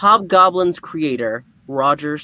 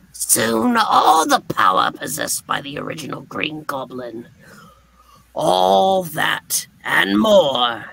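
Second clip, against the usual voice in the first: villain gloat. Acted. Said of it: "villain gloats in comic".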